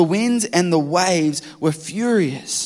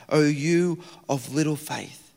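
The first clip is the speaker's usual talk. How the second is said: softer, slow, sorrowful chiding; gentle rebuke; 2 semitones lower, 5 dB quieter, slower than usual. Acted. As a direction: say it like a patient, disappointed teacher. Quoting Jesus' rebuke.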